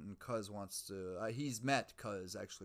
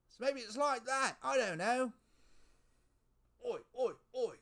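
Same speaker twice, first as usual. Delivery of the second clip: loud, high, hammed-up Mexican accent; 10 dB louder than usual. Host clowning after musing on time, loud mock Mexican accent. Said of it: "Mexican accent".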